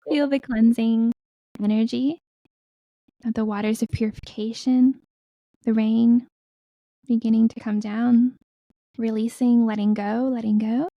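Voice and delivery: spaced-out phrases, measured meditation voice; guided meditation. Acted. Healer guiding listeners to breathe into the earth, guided meditation.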